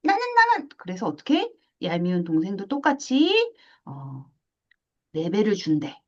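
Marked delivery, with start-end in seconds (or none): 0.0-0.7 put-on high, eager kid cry; me too, high and pushy; demanding little sibling. (떼쓰는 동생처럼 높게 "나는, 나는!")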